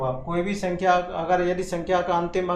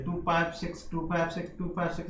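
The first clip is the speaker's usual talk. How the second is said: fading repetition; 6 dB quieter than usual. Shown as a demonstration. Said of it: "जैसे अनंत अनंत तक जा रहा है".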